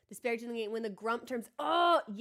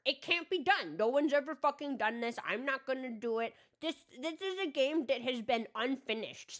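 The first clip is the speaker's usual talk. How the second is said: grumpy gamer rant. Retold or imitated. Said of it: "I become Grumpy Crow".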